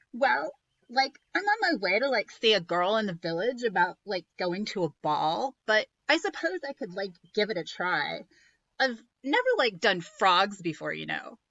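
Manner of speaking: put-on ditzy teen saying like a lot; a bored valley girl fairy godmother.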